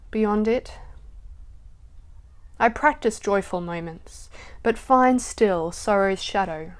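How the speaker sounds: measured poetry recital with pauses; poem reading. Acted. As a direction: read it reflectively, lingering between phrases. Reads a reflective poem aloud.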